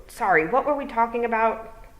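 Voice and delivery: loud, croaky little toad. Acted. Toad apologizing to Tiffany, loud croaky voice.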